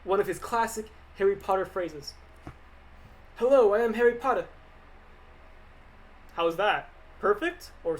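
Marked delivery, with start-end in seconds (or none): 3.4-4.5 lightly put-on British accent, a bit louder; a shaky attempt at a British voice. Harry Potter impression asked for by chat, mock British. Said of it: "I'm gonna do Harry Potter".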